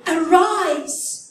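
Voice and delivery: loud, ringing command; commanding call. Acted. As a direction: call the dead to rise. Jesus' command voiced in sermon.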